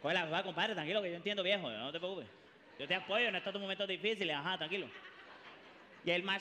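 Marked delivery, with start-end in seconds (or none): 0.0-4.9 low, soft fake sympathy; consoling friend. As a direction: pat him on the back, soothing.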